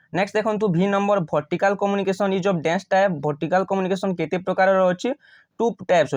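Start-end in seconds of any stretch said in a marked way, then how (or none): 1.3-3.1 slow exam-question reading. Shown as a demonstration. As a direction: read the question very slowly. Teacher reads exam question aloud.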